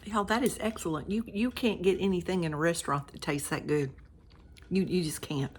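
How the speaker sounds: talking with a mouth full of food. Real, not acted. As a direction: speak around a bite, chewing. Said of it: "I'm trying not to talk with my mouth full".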